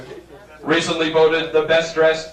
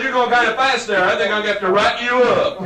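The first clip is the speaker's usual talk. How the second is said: lightly put-on southern trooper; higher-pitched mock southern cop; southern accent; 6 semitones higher than usual. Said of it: "you develop a southern accent".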